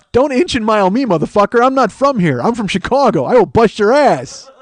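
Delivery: loud, high hammed-up outrage; mock tough threat. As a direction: threaten like a riled-up Chicago tough guy. Acted threat to the fry thief.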